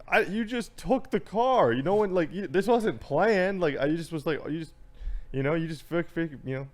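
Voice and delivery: high, exasperated retold protest, words stumbling; worked up. Son arguing with mom about the taken car, worked up. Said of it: "I'm sorry, I'm getting worked up".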